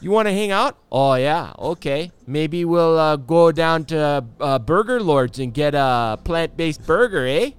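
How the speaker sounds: high, loud, hammed-up Canadian friendliness; exaggerated Canadian buddy voice, high and loud; mock Canadian accent. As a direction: play an over-the-top friendly Canadian, eh. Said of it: "That's not how you talk".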